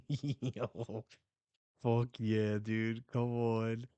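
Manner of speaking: loud hyped cheer; excited cheer. Real, not acted. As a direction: celebrate the big moment. Hyped reaction to manga.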